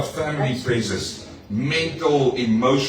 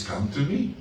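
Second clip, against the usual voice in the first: soft invitation; 5 dB quieter than usual. Acted. Quoting Jesus softly.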